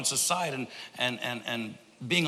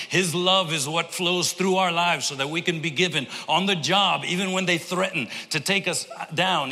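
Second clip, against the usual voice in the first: rising preaching; 3 semitones higher than usual. Acted. Pastor exhorting congregation to give themselves, building preaching. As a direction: build the sermon toward its peak.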